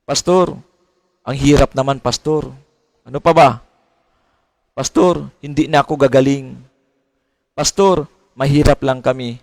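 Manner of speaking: light mock whine, each plea ending on a falling "Pastor"; half-hearted pleading believer; whiny church member. Church member listing excuses to the pastor, mild mock whine. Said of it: "Yun ang laging sinasabi".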